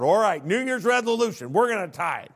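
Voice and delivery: bursting with fresh resolve; eager resolution. Retold or imitated. Pastor quoting his younger self's eager tithe vow. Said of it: "I said".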